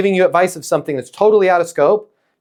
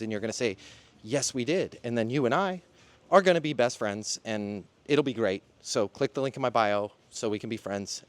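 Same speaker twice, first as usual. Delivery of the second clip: softer, quick promo read; 5 semitones lower, 13 dB quieter than usual. Acted. Host pitching a masterclass to viewers in an ad read. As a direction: wrap up with a friendly sales plug.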